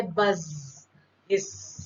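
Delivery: "बज" and "हिस" with long sizzling final consonants; onomatopoeic. Shown as a demonstration. Teacher showing students words that sound like their meaning, onomatopoeic. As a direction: let the endings of "बज" and "हिस" ring on. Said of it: "words ही show कर देते हैं कि कौन सी sound है".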